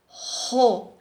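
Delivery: ro set apart after a pause; a separate beat on ro; second syllable alone. Shown as a demonstration. Teacher separating double R, syllable said by itself. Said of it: "precisam se separar".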